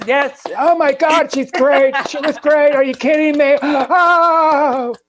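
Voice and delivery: loud, high raspy Joan Rivers. Retold or imitated. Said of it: "It's the".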